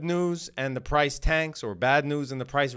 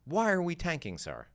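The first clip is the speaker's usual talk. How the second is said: lightly voiced questioner, a little higher; put-on questioner voice; 4 semitones higher than usual. Trader hitting up the coach when it turns red, lightly put-on questioner voice. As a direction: put on a slight mock-questioner voice. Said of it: "I just did a voice that doesn't sound like me to differentiate".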